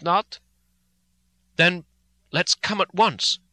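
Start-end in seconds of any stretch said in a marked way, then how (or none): 1.5-3.4 crying out. Acted. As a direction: cry out, impatient to go. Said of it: "I cried".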